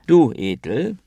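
pointed ironic call, swinging high; ironic, aggressive. A narrator's reading. Monk calling out the drifting, nodding Ethel, ironically aggressive. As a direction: jab at her with mock-aggressive irony. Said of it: "ironisch aggressiver".

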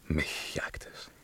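slow, voiceless whisper of dread; slow frightened whisper; hunted whisper. Acted. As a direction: breathe it out as if the hunter could hear.

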